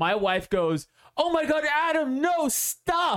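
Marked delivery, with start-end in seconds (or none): 1.2-3.2 mock, very high, stretched, top-of-lungs yell. Retelling the wife's reaction to the dog breaking loose: imitating wife yelling. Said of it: "At the top of her lungs".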